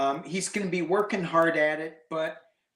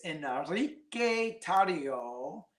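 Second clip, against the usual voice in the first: slow, careful attempt at Spanish; American-tinged Spanish pronunciation; horrific Spanish accent; slower than usual. Shown as a demonstration. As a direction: labor through a clumsy Spanish accent. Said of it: "my accent is horrific".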